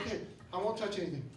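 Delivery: quick, soft retold reply; meek compliance. Patient obeying the nurse's rule, meek and hushed. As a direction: say it hurried and under the breath.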